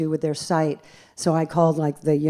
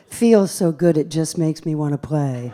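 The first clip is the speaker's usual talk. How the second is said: contented sigh. Retold or imitated. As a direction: replay the dreamy recording with a sigh. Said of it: "it says".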